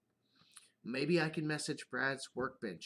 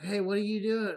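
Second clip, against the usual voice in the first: higher, louder scolding call; daughter yelling; 6 semitones higher, 7 dB louder than usual. Retold or imitated. Daughter catching dad liking his own video, louder scold. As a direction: yell it like an annoyed daughter. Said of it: "she'll be like".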